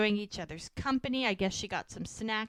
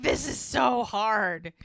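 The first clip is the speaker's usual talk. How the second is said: loud, slow acted exertion; imitating someone straining at a saw; out of breath; 6 dB louder, much slower than usual. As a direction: heave the words out, mock winded. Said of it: "like, breathing".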